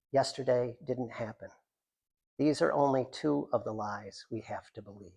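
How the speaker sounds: deliberate reading of a short poem. Acted. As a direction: let each image hang in the air. Reads a poem.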